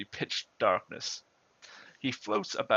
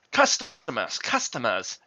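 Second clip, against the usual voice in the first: baritone yell; 6 dB louder than usual. Acted. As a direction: bellow it in a baritone. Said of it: "he yells in a very baritone, baritone, baritone voice".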